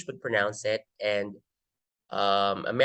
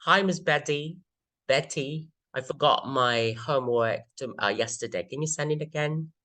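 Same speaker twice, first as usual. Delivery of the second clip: British accent; 3 semitones higher than usual. Shown as a demonstration. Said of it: "British would pronounce this".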